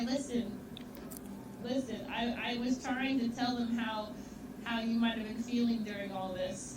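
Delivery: loud, bossy buddy call; loud mock address. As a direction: call out to the friend, hammed-up. Addresses friend loudly, jokingly.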